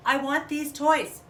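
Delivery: put-on high, loud, slow childish demand; whiny demand. Little bunny demanding toys from her mother, loud and whiny. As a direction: stamp the words out like a spoiled child.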